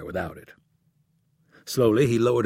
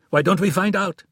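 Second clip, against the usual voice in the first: defiant; 9 semitones higher, 6 dB louder than usual. A narrator's reading. Defiant challenge in quarrel.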